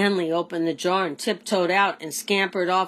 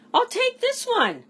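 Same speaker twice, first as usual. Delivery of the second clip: alien buyer. A narrator's reading. Three-eyed alien buyer.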